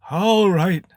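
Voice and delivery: high, loud pompous wizard; a showy wizard taking charge. A narrator's reading. Wizard John voiced in story.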